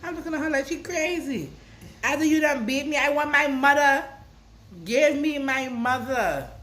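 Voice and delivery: mock childish outrage. Grandchild replaying childhood protest at grandmother, loud and high. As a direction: demand your mother like a wronged kid.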